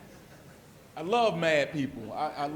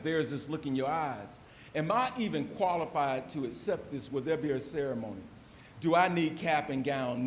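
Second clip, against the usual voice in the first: spoken word reading; poem recitation. Acted. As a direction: perform the poem to the room. Recites his poem I Accept.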